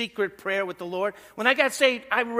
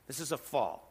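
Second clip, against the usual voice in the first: softer repeat; 6 semitones lower, 8 dB quieter than usual. Shown as a demonstration.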